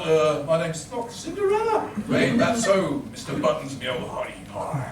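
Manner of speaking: lightly voiced pirate; a hint of Long John Silver growl; gruff old fisherman. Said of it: "a little less pirate in her".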